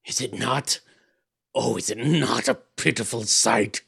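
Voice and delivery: slow, hollow lament of a damned soul; mournful fiend. A narrator's reading. Fiend lamenting his torment to the sleeper, slow and hollow. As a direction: grieve as a pitiful fiend.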